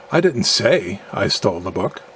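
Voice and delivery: "say" duidelijk benadrukt; stress on SAY. Shown as a demonstration. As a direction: zet de nadruk op "say". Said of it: "implying that I communicated in a manner other than speaking".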